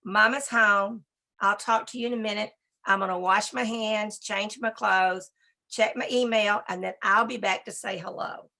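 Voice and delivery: calm greeting demo. Shown as a demonstration. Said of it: "You come in and you say".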